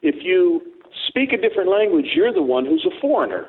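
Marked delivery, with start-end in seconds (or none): none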